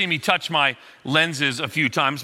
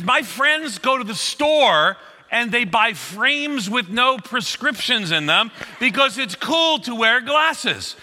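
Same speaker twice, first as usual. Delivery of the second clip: put-on high, slow patient teen lecturing dad; teen daughter calming her dad; condescending teen; 6 semitones higher, slower than usual. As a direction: talk down to your father kindly. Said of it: "that tone of voice".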